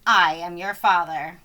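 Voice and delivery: low, weighty reveal; Vader reveal. A narrator's reading. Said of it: "says Vader".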